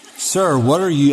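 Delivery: ordinary delivery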